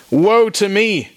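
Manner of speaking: high, slow anguished cry; high, slow cry of despair; Isaiah crying woe. Acted. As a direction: wail it out in dread. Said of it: "I cried".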